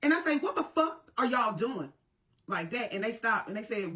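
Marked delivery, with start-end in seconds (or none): 0.4-1.9 higher, indignant challenge; retold angry outburst. Mother catching boys hitting her son, retold angry outburst. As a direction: re-enact a furious mother's demand. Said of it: "I was so fucking mad".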